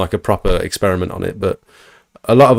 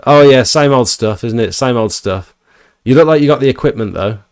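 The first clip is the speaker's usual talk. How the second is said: mock posh guy; 3 semitones higher than usual. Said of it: "He's a, like, a posh guy".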